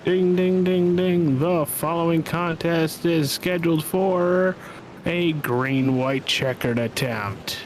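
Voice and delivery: slow, drawn-out announcer proclamation; mock ring announcer. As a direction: imitate the bell, then announce the bout with ceremony.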